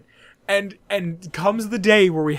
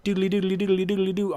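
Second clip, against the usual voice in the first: playful sing-song doodly noises; mock internet noise; 5 semitones higher, faster than usual. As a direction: imitate a laptop browsing with silly syllables. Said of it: "that's what the internet sounds like".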